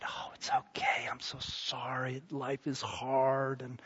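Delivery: soft, soothing mock whisper; gentle whisper. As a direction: whisper it like an overly gentle shepherd. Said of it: "He whispered and said".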